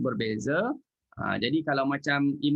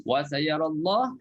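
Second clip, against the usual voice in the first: tajwid recitation; slower than usual. Shown as a demonstration. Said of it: "kalau sambung tak boleh lah".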